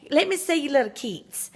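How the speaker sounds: a hint of Daddy's voice, lightly played; imitating Daddy. Retelling her father's pet phrase, lightly voiced. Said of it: "he'd say".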